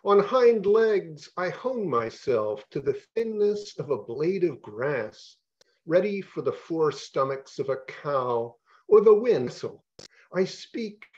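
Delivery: slow, measured poetry reading voice; deliberate spoken-word delivery with long pauses; poem reading. Acted. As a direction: let each line land slowly, like a poet at a reading. Poet reads his poem aloud.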